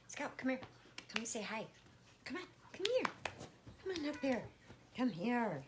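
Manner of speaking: high coaxing call; calling the cat. Real, not acted. Owner calling Scout to come say hi, high coaxing. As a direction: coax Scout over, high and bright.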